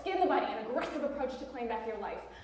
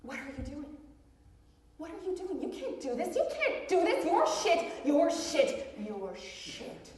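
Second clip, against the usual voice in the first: inner voice of fear; 2 semitones higher, slower than usual. Acted. Fear voice taunts the would-be learner, mild mock nagging. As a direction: voice the little fear in your head taunting you. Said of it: "That little voice of fear that says".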